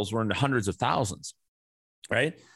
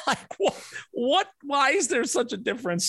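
much higher, laughing in disbelief; real laughing outrage; incredulous laugh; 14 semitones higher than usual. Real, not acted. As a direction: laugh it out, can't believe it. Laughing disbelief at price gap.

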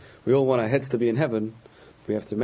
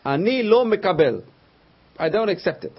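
higher, louder flat-out refusal; emphatic retort; 7 semitones higher, 5 dB louder than usual. Retold or imitated. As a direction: imitate a friend stubbornly shutting you down. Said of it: "his retort, his answer was".

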